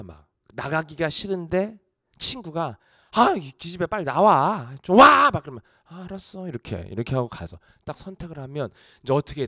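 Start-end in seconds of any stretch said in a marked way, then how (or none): 3.1-5.3 friend calling out. Retold or imitated. A friend yelling at her to come out, impatient. 5.9-6.5 soft, grudging okay; reluctant reply. Retold or imitated. Answering a pushy friend, soft and grudging.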